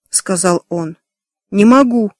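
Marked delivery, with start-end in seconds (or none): 1.5-2.1 mild groan. A narrator's reading. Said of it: "простонала Эми".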